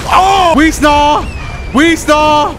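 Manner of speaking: high, loud mock screech; shouted screech. Sudden cry while playing, nonsense screech.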